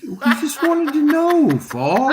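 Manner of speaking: high mock voice. Defending friend in high voice.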